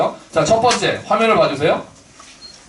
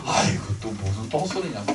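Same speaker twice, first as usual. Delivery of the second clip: scoffing; 8 semitones lower, 9 dB quieter than usual. Retold or imitated. Scoffing imagined skeptic.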